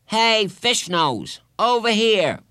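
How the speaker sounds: high, drawn-out schoolyard call. A narrator's reading. Boy to classmate with the ball, calling out. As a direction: call over to a boy across the yard. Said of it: "called Robbie, a boy from their class".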